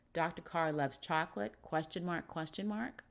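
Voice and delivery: questioning rise on chocolate and the last mark; double-questioned headline. Shown as a demonstration. Teacher reading a headline with two question marks, questioning rise.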